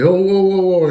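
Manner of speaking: high, sharp whoa called out; alarmed call across the room; calling out to stop. Retold or imitated. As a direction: stop them mid-lift with a cry.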